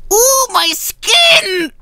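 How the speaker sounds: very high, drawn-out falsetto; hammed-up wail, stretched out slowly. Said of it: "it just seems like he would say".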